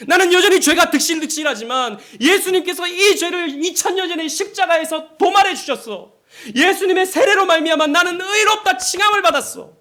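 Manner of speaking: high, loud shouted declaration of faith; defiant cry. Shown as a demonstration. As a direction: shout it down at the accuser. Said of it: "우리는 외쳐야 됩니다".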